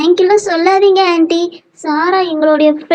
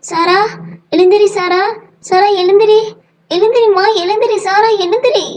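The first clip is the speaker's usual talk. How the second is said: raised pitch, repeated anxious calls; urgent pleading; 4 semitones higher than usual. Acted. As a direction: plead with her to wake up. Trying to wake unconscious Sara.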